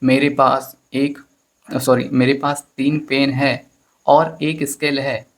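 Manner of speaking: put-on a slow, drawn-out sentence from a boy; lightly voiced boy saying it all slowly and at length; slow long-winded boy. Shown as a demonstration. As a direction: spell out मेरे पास तीन pen है slowly, like a child reciting. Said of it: "तो वो कैसे बोलेगा".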